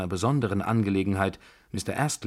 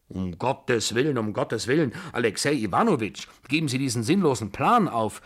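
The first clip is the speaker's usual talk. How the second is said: higher, stammering pleading with rising urgency; stammering plea; 4 semitones higher, 3 dB louder than usual. Acted. General begs Alexei to drop his plan, stammering plea. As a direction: beg him in a halting voice. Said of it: "stammelte der General ... flehenden".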